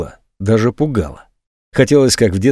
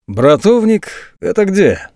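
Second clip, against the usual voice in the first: slow, drawn-out lazy question; лениво, медленно; 8 semitones higher, slower than usual. A narrator's reading. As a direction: ask it lazily, barely interested. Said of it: "лениво переспросил Герман".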